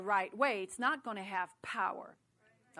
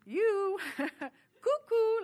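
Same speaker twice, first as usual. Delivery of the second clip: high, loud sing-out with a laugh; mock call to someone being silly; playful teasing; 9 semitones higher, 7 dB louder, much slower than usual.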